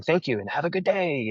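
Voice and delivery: a little lifted and animated; extra polite. Retold or imitated. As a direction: lightly put on customer courtesy. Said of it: "I'm being extra polite".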